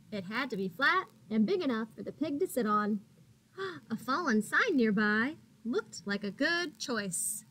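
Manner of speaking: bright, lively picture-book reading; animated storybook narration; reading to children. A narrator's reading. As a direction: read it like storytime for little ones. Reads picture book to kids.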